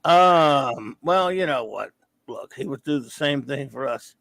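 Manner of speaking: lightly done mumbling Rocky Balboa voice; hint of a slurred Philly boxer; bad Rocky impression. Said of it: "this annoying Rocky stupid voice, really bad Rocky impersonation".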